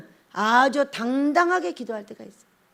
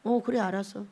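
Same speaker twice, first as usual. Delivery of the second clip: low, soft casual reply; easy fatherly answer; lightly voiced heavenly father; God answering; 4 semitones lower, 8 dB quieter than usual. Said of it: "기도를 이렇게 합니다".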